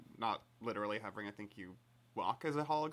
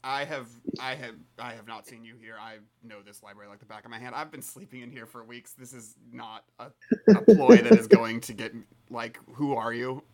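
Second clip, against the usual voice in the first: suspicious confrontation; 15 dB louder than usual. Acted. Librarian confronts stranger, rising to threat.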